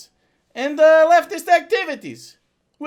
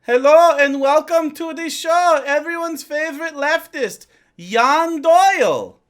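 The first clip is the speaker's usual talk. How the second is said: put-on European accent. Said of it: "If John Doyle was just, uh, from Europe".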